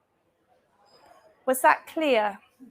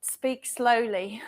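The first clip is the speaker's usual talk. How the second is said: measured, careful delivery; deliberately slow; slower than usual. Real, not acted. Panellist telling the audience how she will talk, deliberately slow. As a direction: take it slowly, word by word. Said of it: "I'm going to speak slowly".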